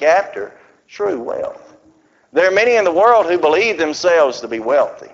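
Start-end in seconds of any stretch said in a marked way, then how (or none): 0.0-1.7 true said slow and leaned on; "true" stretched and weighted; stress on true. Shown as a demonstration. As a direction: press on the word true. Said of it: "I emphasize the word true".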